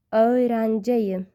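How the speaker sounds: slow, careful Öğrenciyim; slow repeat. Shown as a demonstration. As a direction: say Öğrenciyim slowly, syllable by syllable. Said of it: "Listen and repeat after me".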